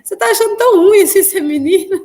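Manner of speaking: incredulous questioning. Retold or imitated. Doctor to mother crying over a girl, incredulous questioning. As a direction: imitate a baffled doctor, pitched well up.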